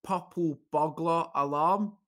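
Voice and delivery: rolled Scottish r's, slow, on purple burglar alarm; Scottish test phrase. Shown as a demonstration. A Scottish comic showing the test phrase to friends, slow Scottish r's. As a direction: say it slowly the Scottish way. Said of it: "make a Scottish person say".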